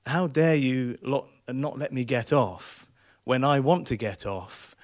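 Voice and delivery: slow, deliberate mock outrage; enraged passenger. Passenger berating the bus driver, slowly enraged. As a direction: spell out the fury word by word. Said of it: "the other guy is enraged".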